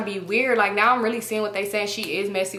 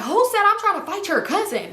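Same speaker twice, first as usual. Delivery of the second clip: mild mock yell; 10 semitones higher than usual. Yelling back in argument.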